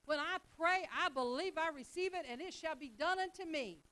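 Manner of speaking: preacher proclaiming faith; fervent declaration. Shown as a demonstration. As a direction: declare it boldly. Quoting scripture with fervour.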